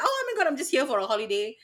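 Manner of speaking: put-on visitor's gush; feigned tourist excitement. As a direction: play the innocent holidaymaker. Repeats the tourist act.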